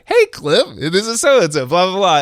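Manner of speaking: high-pitched mock New Zealand accent; Kiwi accent. New Zealander greeting a distant radio caller, high mock Kiwi accent. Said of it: "with this super thick Aussie".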